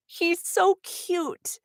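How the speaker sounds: high, slow, cooing over how cute he is; gushing cute. Real, not acted. Voice actor gushing to fans over a cute design, cooing. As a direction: melt over the little design.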